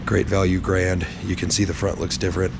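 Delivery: hoarse, sick, barely any voice; raspy whisper from pneumonia; lost voice. Real, not acted. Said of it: "Sorry, I have no voice".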